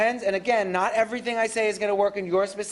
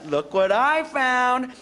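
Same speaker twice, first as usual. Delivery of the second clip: cheerful surprise; 3 semitones higher, slower than usual. Shown as a demonstration. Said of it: "I'm gonna say".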